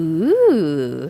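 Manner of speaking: playful, drawn-out ghostly moan, spooky ooh. Arriving at the crime scene, the speaker makes a spooky noise. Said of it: "that was my spoopy noise".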